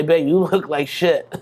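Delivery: slow, blunt honest partner with a laugh; a hint of a blunt girlfriend. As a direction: deliver the hard truth slowly, half laughing. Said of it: "she's gonna say".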